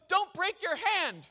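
put-on high, loud, slow little-boy warning; child's plea. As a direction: plead like a worried toddler. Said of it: "He goes".

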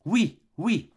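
wife's mimicking retort; mocking wife. Wife mocks husband's words.

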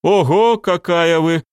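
high, loud exclamation of surprise; surprised. Acted. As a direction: react taken aback, voice jumping up. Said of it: "удивился сержант". (удивлённо, высоким голосом)

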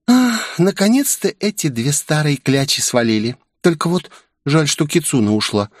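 cheerful relief they've gone; a hint of sugary girlish malice; sweetly. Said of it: "мило улыбнувшись".

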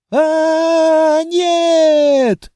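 high, loud squeal of fright. A narrator's reading. Cornered dragoness squealing at the orc, high loud squeal. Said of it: "визжала она".

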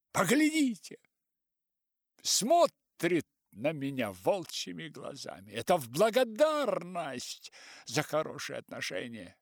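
high, loud offended appeal; appealing to all. A narrator's reading. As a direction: call everyone to witness. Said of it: "жестом всех призвал в свидетелей".

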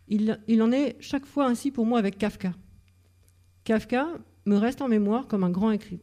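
literary reading in French, phrases lifted at the start; reading a passage aloud. Shown as a demonstration. Lecturer reading a favourite passage from Extinction, projected literary reading. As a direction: read it out to an audience with emphatic phrase openings. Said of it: "Je vais vous lire ce passage parce que c'est".

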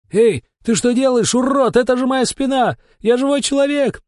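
high, loud wail of outrage; howling yell. A narrator's reading. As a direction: howl it as the broom lands. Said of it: "завопил Сериков". (громкий возмущённый вопль)

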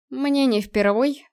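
slow, brushing it off; dismissive. Acted. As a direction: wave it away, slowly. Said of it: "отмахнулся Руслан".

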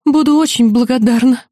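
high timid squeak. Acted. Frightened student squeaking a polite answer to the demon, high squeak. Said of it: "пискнула я".

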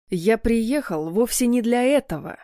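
deliberate weight on "этого"; stress on last word. A narrator's reading. Husband rebutting the father, "этого" deliberately stressed. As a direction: lean on "этого", the final word, growling slightly. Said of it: "намеренно выделив последнее слово".

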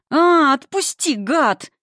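high, slow, loud howl of pain; frantic yell. Acted. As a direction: scream to be let go. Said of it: "истошное".

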